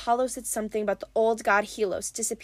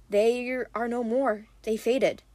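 sad; slower than usual. Acted. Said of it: "expression morphed into something even sadder".

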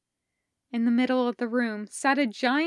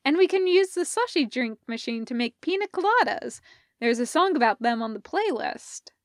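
eager Parker; 3 semitones higher, faster than usual. Acted. Parker keeps pitching the plan.

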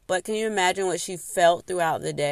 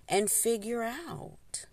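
whisper; 5 semitones higher, 5 dB quieter, slower than usual. Real, not acted. Unvoiced aside.

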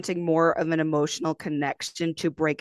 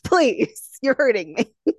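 laughing mock pain; 4 semitones higher, 5 dB louder, slower than usual. Real, not acted. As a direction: plead through a laugh.

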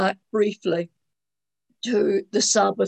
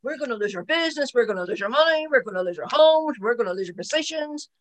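imitating alarmed old Pharisees, high and loud at the start; mock panic over losing their business and homes; panicked Pharisees; 4 semitones higher, 3 dB louder than usual. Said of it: "You just picture the old Pharisees going".

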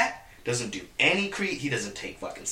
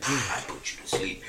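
imitating a soft, cool threat, breaking into a laugh; nonchalant; 6 semitones lower, 6 dB quieter than usual. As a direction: keep it quiet and calm, laughing at the end. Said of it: "so nonchalant".

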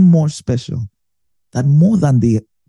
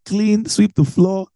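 mom's orders; 5 semitones higher than usual. Retold or imitated. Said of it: "My mom would say".

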